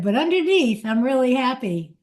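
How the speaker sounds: put-on grandma recalling her grandson's words in a mild child voice. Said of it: "just the way he said".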